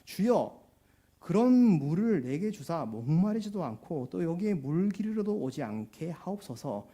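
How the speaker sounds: loud, drawn-out mock pleading; mildly sarcastic. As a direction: imitate a sarcastic plea, slow and emphatic. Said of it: "약간은 비꼬는 투로". (약간 비꼬는 투로, 크고 느리게)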